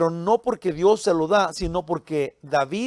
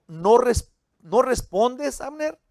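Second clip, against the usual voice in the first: retold shout across the hills; 5 semitones higher, slower than usual. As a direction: hail him from far off, stretching the question. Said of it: "y luego va y le grita a él".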